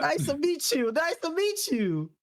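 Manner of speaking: high, drawn-out hello; slightly hammed-up fan greeting; eager greeting.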